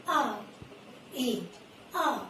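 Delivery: A said as a clear open vowel sound; long A sound. Shown as a demonstration. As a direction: model the A sound for children to copy. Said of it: "You have to speak like this".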